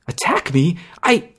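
high, dazed and lost. Acted. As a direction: speak as if in a daze. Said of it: "she said dazedly".

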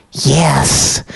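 whispery voice. A narrator's reading. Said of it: "said the whispery voice".

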